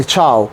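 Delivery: ciao as one syllable, "تشاو" with barely any i; light i glide. Shown as a demonstration. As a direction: say "تشاو" as chow, the i barely touched. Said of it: "الإي مش مكسورة قوي".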